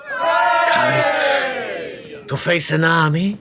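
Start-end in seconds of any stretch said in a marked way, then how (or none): 0.1-2.3 amazed shout. Acted. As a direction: exclaim in disbelief. King marvels at lone woman.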